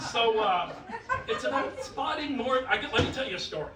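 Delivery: ordinary talk, nothing marked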